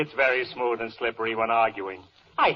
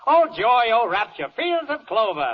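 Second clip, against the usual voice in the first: hammed-up ecstatic gush, much higher and louder; mock rapture; 9 semitones higher, 6 dB louder than usual. Judge gushing over the defense's speech, hammed-up rapture. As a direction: swoon over it theatrically, slowing on the last words.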